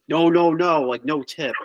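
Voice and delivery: mock Italian waiter, slipping into French; lightly attempted foreign accent, refusing; accidental French-sounding accent. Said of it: "why'd you sound, like, French there?".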